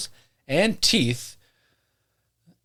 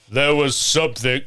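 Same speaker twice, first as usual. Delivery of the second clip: a louder put-on narrator voice, quickly dropped; trial voice; 4 dB louder than usual. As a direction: try out a character voice. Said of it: "I don't like that voice".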